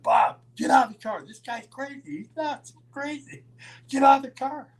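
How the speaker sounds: very high imitation of alarm; panicked urging. Ole to Bob about crazy Roddy, panicked. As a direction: beg him frantically in a high voice.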